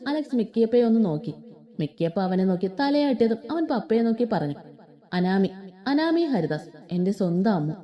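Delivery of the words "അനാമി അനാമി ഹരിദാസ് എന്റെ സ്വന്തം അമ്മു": tender. Acted. Names his beloved to family.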